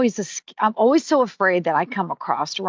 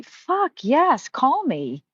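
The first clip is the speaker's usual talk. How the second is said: eager yes; 7 semitones higher, much slower than usual. Real, not acted. Eager answer to asking for help.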